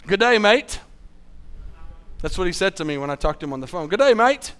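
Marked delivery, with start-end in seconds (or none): 0.0-0.8 put-on Australian accent. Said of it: "Really strong Australian accent". 3.9-4.5 put-on Australian accent. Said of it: "Really strong Australian accent".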